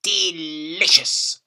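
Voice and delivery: slow, drawn-out savouring; grandma savouring slugs; relishing. A narrator's reading. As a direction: stretch it out, tasting it. Savouring again.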